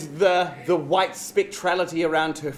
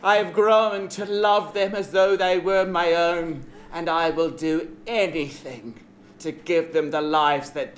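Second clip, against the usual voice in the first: villain voice; 2 semitones lower than usual. Acted. Queen bee villain speech.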